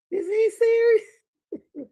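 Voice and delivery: high, loud, slow stunned question; shocked disbelief. Real, not acted. Reacting to the preacher, a shocked slow question. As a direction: drag it out in disbelief.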